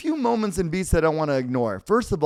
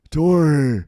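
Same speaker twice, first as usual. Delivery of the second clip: second Kreese try; 5 dB louder than usual. Retold or imitated. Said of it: "How can we do Kreese?".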